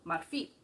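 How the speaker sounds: marfil said mar-FIL; stress on last syllable. Shown as a demonstration. Teacher stating how she should say ivory, final-syllable stress on marfil. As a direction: let the weight land on the end of marfil. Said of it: "putting the stress on the last".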